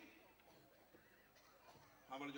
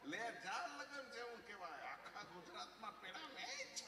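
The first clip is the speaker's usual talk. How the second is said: mocking retort; 3 semitones higher than usual. Husband throws her consolation back.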